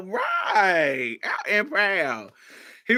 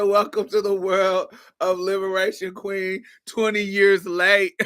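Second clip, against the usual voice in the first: teasing; 4 semitones higher than usual. Retold or imitated. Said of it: "I'm still gonna tease him".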